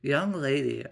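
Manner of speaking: mildly stern warning; firm acted mother's voice. Mother addressing her stomping daughter, stern. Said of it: "Quinn had a stern voice".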